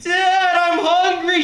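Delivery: put-on high whiny kid yelling for Dad. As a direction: yell it like a starving kid in the back seat. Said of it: "realistic version".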